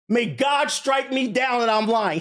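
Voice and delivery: shouting an oath to be believed; real emphatic shout. Real, not acted. Swearing he is telling the truth.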